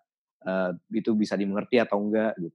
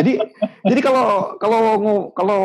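laughing; 11 semitones higher, 6 dB louder than usual. Real, not acted. Laughing after co-host laughs.

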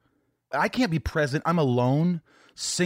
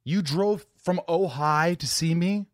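surprised; 7 semitones higher, slower than usual. Real, not acted. Amazed she drove so far.

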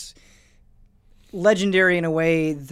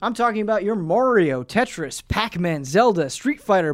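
reading an email aloud; 3 semitones higher than usual. Acted. Reads a listener email.

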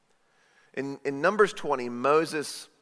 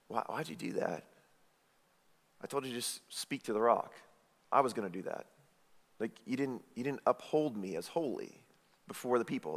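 rebuking; 3 semitones lower, 10 dB quieter than usual. Retold or imitated. God rebuking Moses after the rock.

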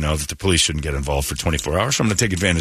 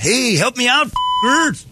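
mock Guadalupean; slower than usual. Pretending to get help from locals, mock accented shout. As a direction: yell for help in a put-on accent. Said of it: "start talking like a Guadalupean".

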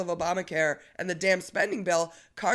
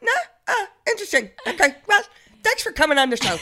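much higher, fast, sing-song mock host; higher, bouncy imitation; imitating friendly interviewer; 11 semitones higher, 6 dB louder, faster than usual. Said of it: "she's more like".

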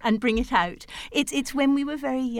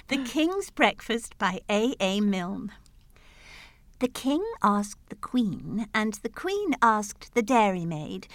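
measured storytelling verse; poem read aloud; 3 semitones lower than usual. Acted. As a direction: read it like a nursery rhyme.

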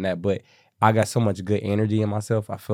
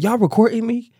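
put-on suspicious old lady; 13 semitones higher, 3 dB louder than usual. Old lady suspicious, voiced in story.

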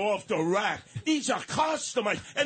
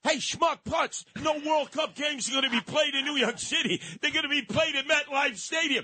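raised, scornful rant at the mayor; angry rant; 4 semitones higher than usual. Real, not acted. Ranting at the mayor.

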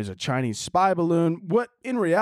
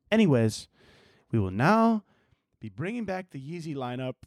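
usual speaking voice

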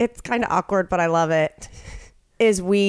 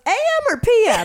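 mock casual question; 12 semitones higher than usual. Caller asks casually.

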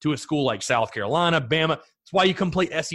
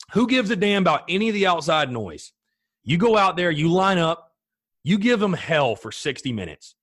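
pep talk to team; 3 semitones higher than usual. Retold or imitated. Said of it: "This is what I tell the team".

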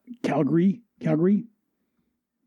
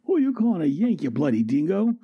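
offended Aussie; 4 semitones higher than usual. Acted. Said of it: "Boomerang gets all offended".

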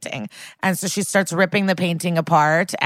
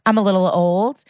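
mildly smug retold taunt, lilting up; retold quote with a touch of smugness; 2 semitones higher than usual. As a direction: lightly act out a smug needling. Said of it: "she's acting smug as hell".

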